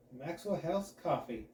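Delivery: velvety announcer read; super smooth. Acted. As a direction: glide through the brand name like silk. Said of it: "I say super smoothly".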